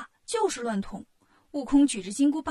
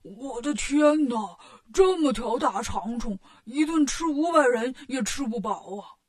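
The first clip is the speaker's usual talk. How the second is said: startled cry. A narrator's reading. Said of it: "八戒惊叫着说".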